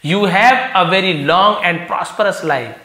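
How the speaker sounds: slow, deliberate reading of the line. Shown as a demonstration. Teacher reading the story sentence to the class, slow and deliberate. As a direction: read each word out slowly. Reading fortune teller's prophecy slowly.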